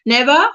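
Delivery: "Never" said without the final R; non-rhotic "Never" with questioning lift; R left silent. Shown as a demonstration. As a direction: end "Never" on an open vowel. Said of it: "do not say the R in car".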